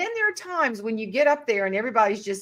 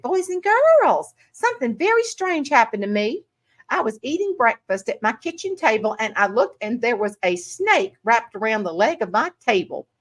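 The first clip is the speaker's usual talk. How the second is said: Southern Belle teacher; 3 semitones higher than usual. Retold or imitated. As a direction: tell the class a tale in a gentle Southern lilt. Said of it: "little old Southern Belle".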